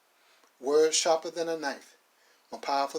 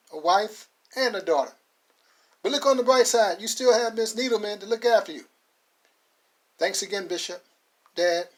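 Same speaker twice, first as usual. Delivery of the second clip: put-on high, loud, cheerful young man saying goodbye; Max's farewell voice; 6 semitones higher, 5 dB louder than usual. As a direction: call out from the car, grateful and upbeat. Max says goodbye from car.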